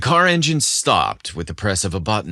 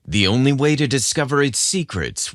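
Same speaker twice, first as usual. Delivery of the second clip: dramatic teaser narration. A narrator's reading. Host teasing listeners with the episode's dramatic hook. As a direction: tease the adventure ahead.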